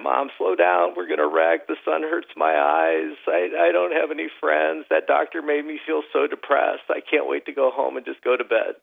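lightly hammed-up pessimist child whimpering; mock crying boy. Gloomy son complaining to mom on the drive, mild mock whining. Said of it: "who's crying".

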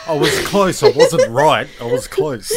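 high, loud laughing brag; laughing gloat. Real, not acted. Teasing friends about the guess, laughing and gloating. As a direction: gloat through laughter at being close.

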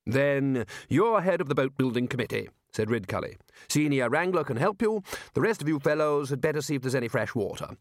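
lightly voiced leader assigning jobs; Ridcully, giving orders. Ridcully hands out tasks to the wizards, giving orders.

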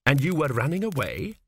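ordinary delivery, nothing marked

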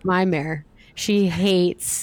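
hammed-up Delco accent. Shown as a demonstration. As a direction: play a local in broad Delco speech. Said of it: "pretty good Delco accent".

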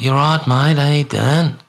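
lilting Aussie greeting; hint of a friendly Australian mate; Australian accent. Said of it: "Australian is more like".

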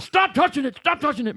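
high, loud mock scolding; scolding doctor. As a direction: order him to stop, laughing.

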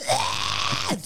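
mock strained growl-scream; short imitated cry of effort; imitated angry noise. Imitating a mad child squeezing Happy's face, strained mock yell. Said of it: "and she'll be like".

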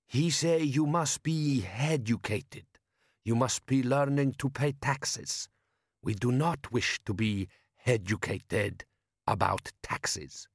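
slow, deliberate desert chieftain voice; a bandit chief speaking slowly in a foreign tongue; Jabbar's voice. Acted. Bandit chief lecturing Vimes on robbery, slow and deliberate.

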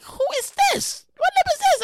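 irritated unknown caller; annoyed phone answer. Retold or imitated. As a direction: demand who's calling. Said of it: "I'm like".

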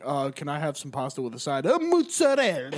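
plain order ending on a showy Italian "mozzarella"; goofy mock order. Imagined diner ordering pasta, goofy Italian American finish. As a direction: act out an awkward deli order, overdoing the last word. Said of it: "you sound goofy being like".

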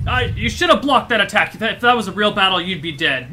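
loud, high drill-sergeant shouting; yelling. Acted. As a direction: bark at the troops like a drill instructor. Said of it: "she's yelling at them".

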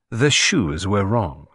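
slow, faraway musing; lost in thought; dreamily. Acted. Detective to Hastings, slow and dreamy. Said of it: "said Poirot dreamily".

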